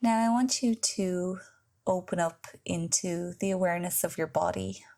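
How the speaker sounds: measured guided relaxation voice with long pauses; guided meditation. Acted. Yoga teacher leading listeners into Yoga Nidra, guided meditation. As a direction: guide the listener into rest, leaving space between phrases.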